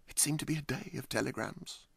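ordinary delivery, nothing marked

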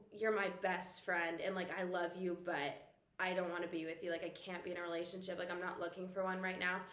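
soft, low retold breakup speech; gentle letdown. Boyfriend breaking up with his best friend, gently.

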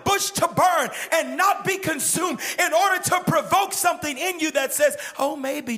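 very high, loud shouted preaching; climactic preaching. Acted. Preacher at the climax to the congregation, loud high shouting. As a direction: build to a fiery peak.

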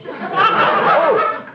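a hammed-up little gasp of surprise; mock startled oh. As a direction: play the caught-out scholar, taken aback. Theologian caught out, startled.

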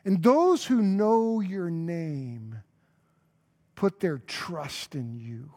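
slow, drawn-out verse reading with long held words; scripture proclamation. Real, not acted. Preacher reads Psalm nine ten to the congregation, slow proclamation. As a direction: proclaim the verse slowly, swelling on the address to God.

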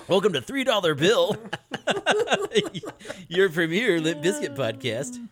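laughing. Real, not acted. Joke podcast intro through laughter.

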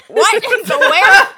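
incredulous "where?", hammed up; baffled. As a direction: act totally lost at the name. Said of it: "and I'm like".

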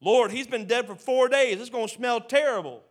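loud, high protest; Martha protesting. Retold or imitated. Martha objecting to Jesus about the smell, loud protest. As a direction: protest loudly, half mocking.

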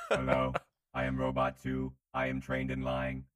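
flat, even robot voice; old speech synthesizer. Acted. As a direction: speak like a stiff robot. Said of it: "another robot moves to the front".

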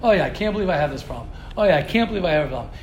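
low, fast, self-pitying moan; hammed-up groaning over your own flaws; mock whining.

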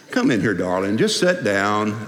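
low, soothing invitation; easy, slowing, soothing tone; imagined Jesus inflection. Acted. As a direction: coax her gently, pitched low. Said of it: "it might have gone like this".

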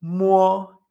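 "muo" with a w glide into o, level tone; Mandarin M O. Shown as a demonstration. Teacher showing learners M O, careful level demonstration. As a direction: say "muo" held and even, gliding through u. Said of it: "Después tenemos la M, M O".

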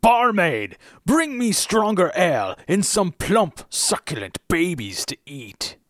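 troll voice. Acted. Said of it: "dial in a troll voice here?".

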